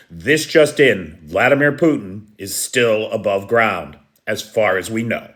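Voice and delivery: mock news anchor. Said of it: "Remember the old Saturday Night Live bit".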